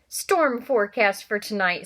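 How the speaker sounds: slow, relishing gleeful line. Acted. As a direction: savour the bad news with glee. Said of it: "said Uncle Vernon gleefully".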